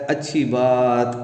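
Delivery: slow, pained reply; sick husband answering his wife wearily; groaning in pain. Acted. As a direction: drag the words out through the pain. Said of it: "کراہتے ہوئے، درد سے وہ کہتا ہے".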